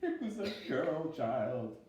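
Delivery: high rising frightened voice; a little monster appalled by a girl; small scared monster. Acted. Billy Monster telling his father about the dream, high and horrified.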